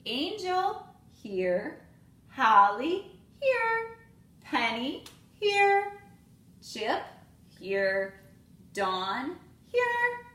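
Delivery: lively storybook read-aloud with voiced characters; reading to children. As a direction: read it like story time for little kids. Teacher reads picture book aloud.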